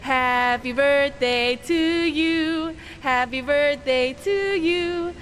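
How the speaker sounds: sung with heavy reverb, slow; vast deep cosmic voice. Pretend. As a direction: sing it like an echoing god. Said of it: "Can you sound like God".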